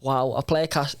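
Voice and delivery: normal talking voice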